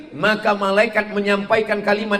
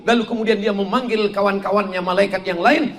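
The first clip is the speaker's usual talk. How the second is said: normal talking voice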